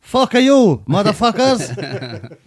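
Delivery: put-on East Timorese accent. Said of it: "East Timor".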